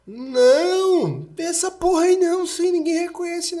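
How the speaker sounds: high put-on carefree voice; Fabão dismissive. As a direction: brush it off, cocky and loud. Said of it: "ele me prometeu". (voz despreocupada de bêbado)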